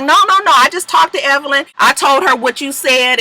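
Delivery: mock pleading. Jackie pleading in retold argument.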